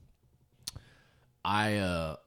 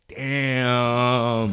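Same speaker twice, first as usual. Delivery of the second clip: loud mock exclaim; 3 semitones higher, 12 dB louder than usual. Reacting to bald head.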